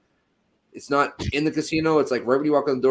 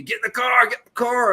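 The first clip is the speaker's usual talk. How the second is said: higher, urgent mock yell; retold yelling; 9 semitones higher than usual. Friends yelling at him to flee, urgent mock shout. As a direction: imitate friends yelling from the getaway car. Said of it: "are fucking yelling at me".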